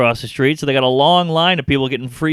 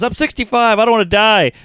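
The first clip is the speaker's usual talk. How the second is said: put-on frightened old man; 7 semitones higher, 4 dB louder than usual.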